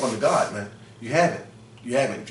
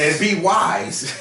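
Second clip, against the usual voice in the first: emphatic shout; 2 semitones higher, much slower than usual. Real, not acted. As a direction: drive the words home slowly. Preacher echoes scripture.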